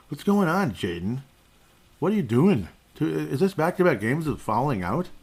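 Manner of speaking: high exasperated scolding. Real, not acted. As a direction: scold the player in disbelief. Exasperated at player fouling out.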